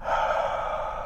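long slow breath out through the mouth; deep exhale. Real, not acted. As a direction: let the held breath go. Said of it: "Breath number one, go".

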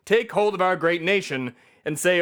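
impassioned satirical oration; rousing political speech. Acted. America scolds hateful marchers, impassioned speech. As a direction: address the nation with indignation.

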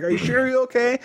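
high careful voice; high-pitched worried question; high concern. Retold or imitated. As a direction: check on her gently. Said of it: "I'm like".

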